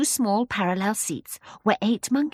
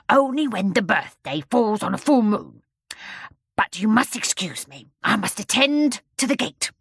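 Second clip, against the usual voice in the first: bear voice=13; 2 semitones higher than usual. Acted. Bear explains.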